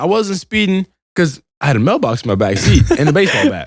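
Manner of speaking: laughing through the words; can't keep a straight face while explaining. Real, not acted. Laughing while telling the story.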